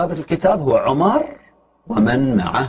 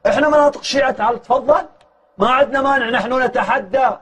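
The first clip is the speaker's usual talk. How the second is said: higher, driving preacher's challenge; preaching at full force; 10 semitones higher than usual. Acted. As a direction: thunder it out like a pulpit challenge. Fiery sermon climax. (خطبة حماسية بصوت عالٍ ونبرة مرتفعة)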